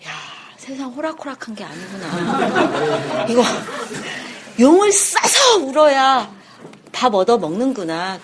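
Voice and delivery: slow, knowing inner voice with a laugh; a baby figuring out the world; wry realization. Acted.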